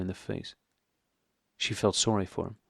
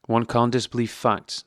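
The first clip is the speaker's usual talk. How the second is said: slow, with facts weighted and pressed home; stress on facts; 3 semitones higher, 3 dB louder than usual. A narrator's reading. Karenin coldly corrects Dolly, stressing facts. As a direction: lean hard on the word facts. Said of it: "emphasizing the word facts".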